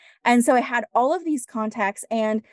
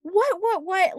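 stunned what; 9 semitones higher, slower than usual. Retold or imitated. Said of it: "And I was like".

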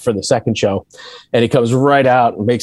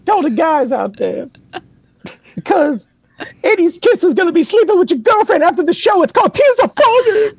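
laughing mock stage banter to an empty arena; rock-frontman banter. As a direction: work the arena like a big stage host. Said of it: "he said".

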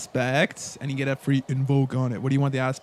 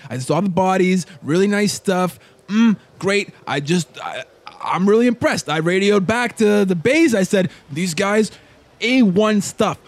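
gushing henchman; 3 semitones higher, 3 dB louder, slower than usual. Acted. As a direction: rave like a foodie about the party. NPC praising the party.

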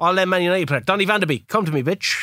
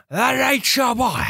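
higher, mock football-manager voice; botched impression, pitched up; Harry Redknapp; 4 semitones higher, slower than usual. Attempting a wrestler but landing on a manager, put-on voice. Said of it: "that was Harry Redknapp".

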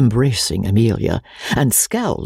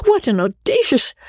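choked with emotion; 12 semitones higher than usual. Acted. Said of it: "Emotion prevented her from finishing".

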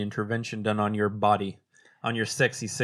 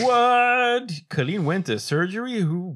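shocked; 9 semitones higher, 5 dB louder, slower than usual. Acted. Mock shock at news.

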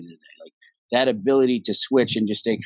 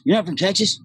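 mock disbelief; 8 semitones higher than usual. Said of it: "He goes".

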